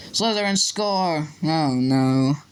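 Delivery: slow, drawn-out goal call, sinking; dismayed commentary. Acted. Commentator reporting the rival team's goal, dismayed. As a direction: let the call sag into mild dismay.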